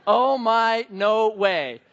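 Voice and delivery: hammed-up scold of a cow and a kid; mock scolding dad. Dad to cow eating diaper, mock-stern scolding. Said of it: "just like".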